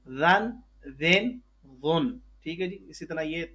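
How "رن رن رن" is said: quick run-through of the syllable; reading it out smoothly without spelling; fluent reading. Shown as a demonstration. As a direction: read it straight off, fluently. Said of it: "اگر روانگی میں پڑھ دوں".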